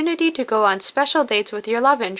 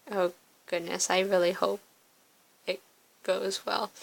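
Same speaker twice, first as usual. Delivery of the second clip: quiet worry; 3 semitones lower, 9 dB quieter than usual. Acted. Worried aside while reading.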